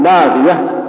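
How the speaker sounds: لاغية slowed, its short i overfilled; over-lengthened vowel. Shown as a demonstration. Teacher warning students what not to say, over-lengthened لاغية. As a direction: stretch the vowels of لاغية as a mistake. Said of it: "ما ت-، تقول".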